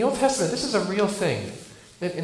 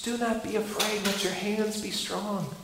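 hushed; 6 dB quieter than usual. Acted. Quiet comforting word from God.

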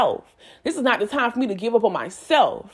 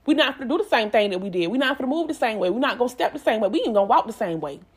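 fast self pep talk; faster than usual. Retold or imitated. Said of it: "And it's like, you know what?".

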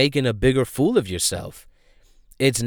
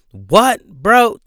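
exasperated disbelief; 8 semitones higher, 7 dB louder than usual. Real, not acted. Exasperated rant at a rapper.

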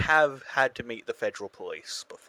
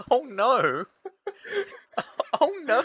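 higher, louder laughing gasp; 12 semitones higher, 6 dB louder than usual. Real, not acted. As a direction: laugh out your horror. Reacting laughing to the story.

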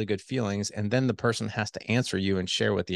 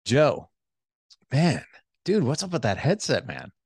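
enthusiastic tone; 4 semitones higher than usual. Shown as a demonstration. Host praising his guest's headset, excited and admiring. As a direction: hype him up about the headset. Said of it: "when I use that voice tone".

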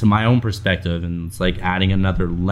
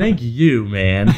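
laughing; 3 semitones higher, 3 dB louder, much slower than usual. Real, not acted. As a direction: thank you through a laugh. Laughing thank-you.

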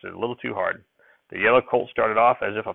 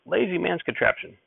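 grumpy shout; 10 semitones higher than usual. A narrator's reading. Grandfather objects to the hay fork, shouting crankily. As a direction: cry it out high, without real volume. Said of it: "Grandfather would shout".

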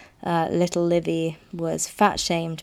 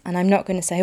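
ordinary delivery

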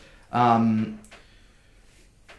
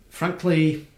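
sudden, higher, louder aside; sharp exclaimed word; 6 semitones higher, 6 dB louder than usual. Acted. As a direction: spit the word out, indignant. Sudden burst mid report.

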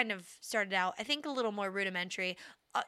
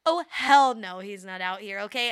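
sassy "hell no", a touch louder; sassy devil quote; 6 dB louder than usual. Retold or imitated. Friends riffing, the devil's sassy refusal. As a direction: play the devil as a diva who refuses to work. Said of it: "that's a devil's quote".

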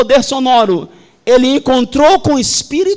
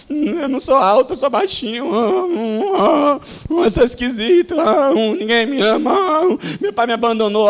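mock sobbing. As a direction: hum and whimper like a sulking child. Voices a sad, unloved person.

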